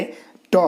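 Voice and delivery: ट said unvoiced, tongue curled back to the roof; whispered ट demo. Shown as a demonstration. Teacher whispering ट to show the students. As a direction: breathe out a bare ट for the class. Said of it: "ट बोलेंगे तो मूर्धा".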